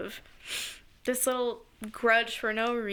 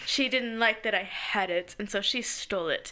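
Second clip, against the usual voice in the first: put-on grudging kid; 4 semitones lower than usual. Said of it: "I held on to that".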